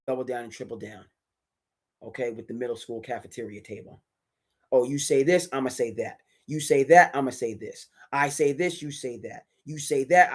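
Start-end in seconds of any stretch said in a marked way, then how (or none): 4.7-10.3 singsong mock schoolyard taunt; childish tit-for-tat voice; mocking petty kids. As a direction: mimic bickering middle schoolers. Mocking petty cafeteria back-and-forth.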